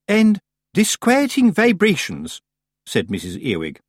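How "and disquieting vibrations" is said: high, slow, affected; drawn out with grand disapproval; pompous society witch. A narrator's reading. Missus Earwig lists the cottage's evils, pompous. Earwig adds ominous complaint.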